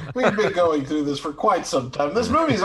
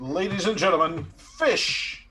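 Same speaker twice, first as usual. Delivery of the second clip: announcer voice; 3 semitones higher, slower than usual. Pretend. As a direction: announce it like a showman. Grand mock announcement.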